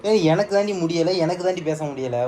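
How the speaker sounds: mock whine. Husband mimicking his sick wife's whine, slow and mocking. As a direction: drag the words out, teasing her weakness.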